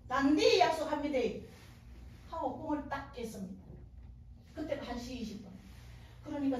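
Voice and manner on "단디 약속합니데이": louder, emphatic Gyeongsang dialect promise. Retold or imitated. Woman sealing her promise to the Lord, Gyeongsang dialect. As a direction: hit 단디 hard in Gyeongsang dialect. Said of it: "막 경상도 말로 막 말했습니다".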